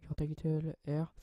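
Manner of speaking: English words with a French accent; English in a soft French accent. Real, not acted. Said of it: "Désolé pour l'accent anglais".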